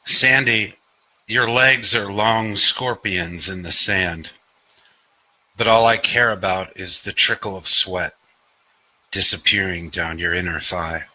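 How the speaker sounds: deliberate open-mic poet delivery; poetry reading. Acted. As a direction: recite it line by line, pausing between. Reads own poem aloud.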